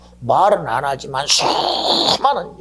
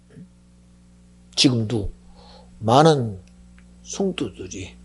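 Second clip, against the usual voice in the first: ordinary talk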